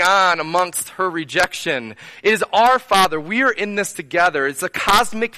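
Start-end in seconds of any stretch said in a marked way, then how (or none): 2.2-3.2 "our" punched, louder; preacher stressing "our" to the church. Real, not acted. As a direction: hit "our" in "It is our Father". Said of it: "this idea of our father".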